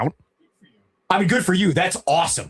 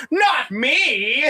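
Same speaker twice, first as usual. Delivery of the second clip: high mock insistence; a hint of the naive recruit; naive young self. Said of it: "And I'm like".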